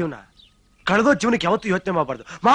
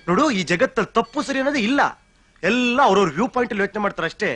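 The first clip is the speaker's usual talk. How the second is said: ordinary talk, nothing marked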